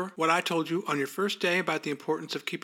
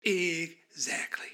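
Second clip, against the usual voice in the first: smug drawn out; much slower than usual. Acted. Boss savoring the word.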